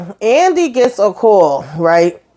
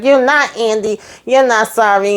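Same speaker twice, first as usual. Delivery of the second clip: accusing; 3 semitones higher than usual. Retold or imitated. Karen accusing Andy.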